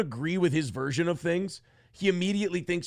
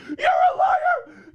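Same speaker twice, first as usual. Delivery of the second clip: high, very slow screeched accusation; screeching; 6 dB louder, much slower than usual. Retold or imitated. Friend Nick screeching an accusation at him, mock shriek. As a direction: shriek it out, dragging every word. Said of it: "he's screeching".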